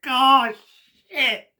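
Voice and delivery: high, loud shocked outburst; stunned exclaim. Retold or imitated. Fan reliving the moment the crowd erupts, loud shock. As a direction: blurt it out in disbelief.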